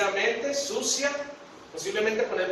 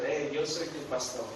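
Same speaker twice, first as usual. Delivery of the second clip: gentle reassurance; 4 dB quieter than usual. Acted. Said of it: "Jesús te está diciendo".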